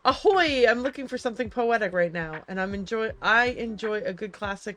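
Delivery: loud, hearty sailor greeting, easing off; lightly voiced sailor, big opening call. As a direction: hail them like a sailor, then settle. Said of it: "Ooh, a sailor!".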